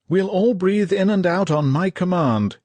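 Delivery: high, loud officer's order; lieutenant shouting orders to his men; yelled command. Acted. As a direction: bark it across the crowded bunker. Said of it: "yelled a lieutenant".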